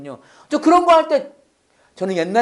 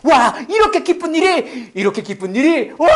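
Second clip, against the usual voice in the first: imitating delighted amazement, starting high; overjoyed exclamation; 3 semitones higher than usual. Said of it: "하고 너무 좋아하시는 거예요". (너무 기뻐 감탄하는 흉내)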